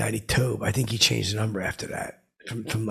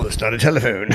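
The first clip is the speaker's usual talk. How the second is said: louder punchline retort; 8 dB louder than usual. Retold or imitated. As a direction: fire the comeback loudly. Retort at dinner.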